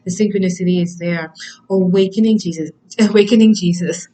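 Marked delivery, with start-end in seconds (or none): 1.7-4.1 louder, laughing at her own slip; laughing misreading. Real, not acted. Reader laughing as she misreads the card as Jesus. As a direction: giggle through the misread title.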